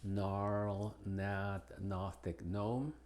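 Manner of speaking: "gnarl, gnat, gnostic, gnome" starting on a plain N sound; "gnarl, gnat, gnostic, gnome" with the initial G dropped; silent G. Shown as a demonstration. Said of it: "Pero no en medio".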